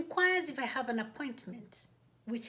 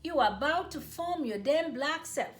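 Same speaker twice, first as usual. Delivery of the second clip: teasing colleagues; 3 semitones higher than usual. Retold or imitated. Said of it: "Each laughed and said".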